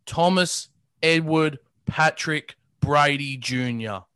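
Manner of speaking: slow, deliberate full-name announcement; Skip Bayless. Retold or imitated. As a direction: space out each name with mock grandeur. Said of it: "this is how he says it".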